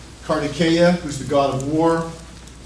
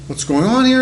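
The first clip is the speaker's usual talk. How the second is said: mock alarmed wife; 11 semitones higher, 6 dB louder than usual. Parvati freaking out.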